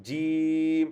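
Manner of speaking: জিম said loosely, tongue middle not touching palate; জিম, tongue middle short of the palate; first take of jim. Shown as a demonstration. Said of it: "একটা হচ্ছে". (জিম ভুল মাখরাজে)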